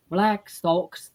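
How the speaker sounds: BLACK SOCKS in broad New Jersey vowels; Jersey accent. Shown as a demonstration. Recalling music class song drill, imitated Jersey accent. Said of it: "Jersey style".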